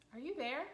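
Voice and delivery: "are you there" lifted as a tentative question. Shown as a demonstration. Owner checking another room, "are you there" asked questioningly. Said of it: "You're questioning if Bob is in that room".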